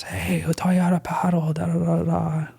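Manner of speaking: breezy imitation of the uncle explaining; mock uncle. Uncle voiced in retold story.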